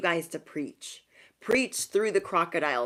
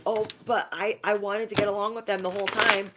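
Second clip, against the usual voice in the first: protesting; 3 semitones higher than usual. Acted. Opponents excusing themselves to the reader, protesting.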